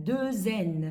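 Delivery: "deux N" linked with a Z sound; French liaison. Shown as a demonstration. Teacher showing how double N is read, "deux N" linked with z. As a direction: join "deux N" through a z. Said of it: "hiện tượng là nối âm".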